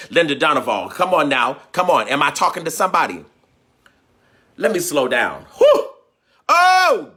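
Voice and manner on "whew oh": high, loud laughing whew. Real, not acted. Telling himself to slow down, a laughing high whew. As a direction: blow it out with a laugh. Catching himself getting carried away.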